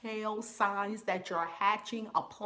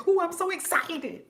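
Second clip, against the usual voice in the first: higher, bubbly imitation of her old self; mock excited gush; 8 semitones higher, 4 dB louder than usual. She imitates how she used to gush, mock excited. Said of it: "I used to say".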